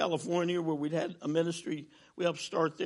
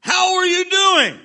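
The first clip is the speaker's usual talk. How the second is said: tall pastor's question; 10 semitones higher, 12 dB louder, slower than usual. Retold or imitated. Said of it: "And he's got a deep voice".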